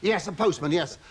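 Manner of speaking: a hint of nervous Frankie Howerd; lightly voiced fussy comic, flustered; light Frankie Howerd take, bashful. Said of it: "doing a sort of Frankie Howerd act".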